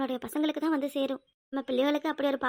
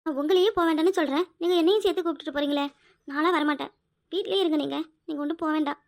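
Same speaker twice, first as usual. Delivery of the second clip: raised, insistent plea; louder, begging him to stay home; upset pleading; 4 dB louder than usual. Acted. Wife pleading loudly with husband to stay home.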